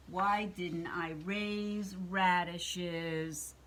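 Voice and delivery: slow, drawn-out lament; mild storybook self-pity; regretful witch. Acted. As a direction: moan it slowly as the thwarted witch. Witch left without cookies laments.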